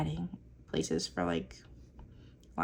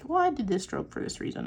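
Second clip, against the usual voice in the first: mock artsy explanation; 6 semitones higher than usual. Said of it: "I'm like".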